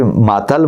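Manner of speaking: Muhammad Ali squashed into "ماتل"; mangled name. Retold or imitated. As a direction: say "ماتل", the name cut down to two syllables. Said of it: "ناموں کو خراب کر کے". (بگاڑا ہوا نام "ماتل")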